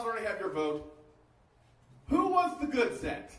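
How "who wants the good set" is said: excited. Real, not acted. Asks crowd to vote.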